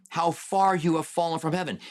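the voice of God mocking a fallen rival; God mocking Satan. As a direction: taunt him from above, a touch of scorn. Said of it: "It was God mocking him".

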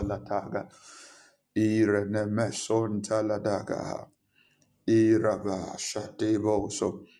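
passionate praying aloud; fervent prayer. Acted. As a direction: pray with fervour.

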